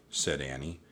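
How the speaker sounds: ordinary delivery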